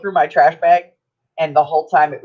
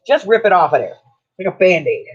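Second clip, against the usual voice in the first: higher, mildly exasperated mock retort; impatient retort; 3 semitones higher, 3 dB louder than usual. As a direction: cut in with playful impatience. Impatient retort to slow crafter.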